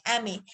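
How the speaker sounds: एम ए starting on an "e" vowel, as "em-ay"; correct letter names. Shown as a demonstration. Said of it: "हम क्या बोलेंगे?".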